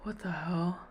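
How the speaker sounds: hushed shocked whisper. Real, not acted. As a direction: breathe it out in disbelief. Shocked alone at computer.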